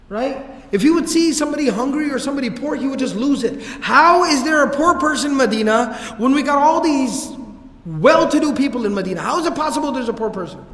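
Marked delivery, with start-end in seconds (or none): 3.8-10.6 indignant outburst. Retold or imitated. Abu Dharr angry about poverty.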